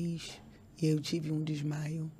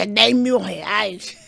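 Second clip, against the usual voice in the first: louder and very slow, laughing through "dez mil reais" with a rising end; laughing disbelief; 3 semitones higher, 10 dB louder, much slower than usual. Retold or imitated. Retelling the husband's ticket price to listeners, laughing disbelief. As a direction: repeat the price laughing at how absurd it is. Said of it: "E eu senti ele muito calmo".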